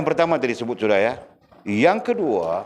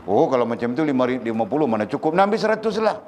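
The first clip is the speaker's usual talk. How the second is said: generous mother; 4 semitones higher than usual. Retold or imitated. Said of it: "Kerana dia tidak marah".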